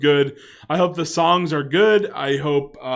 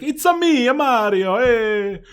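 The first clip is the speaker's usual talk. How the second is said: hammed-up Italian stereotype accent, pitched way up; Mario impression; 7 semitones higher than usual. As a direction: squeak it out like a cartoon Italian plumber. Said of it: "those Italian stereotypes where it's like".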